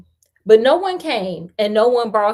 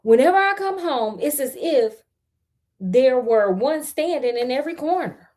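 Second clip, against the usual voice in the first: peasant refusing; 3 semitones higher than usual. Acted. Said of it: "said the peasant".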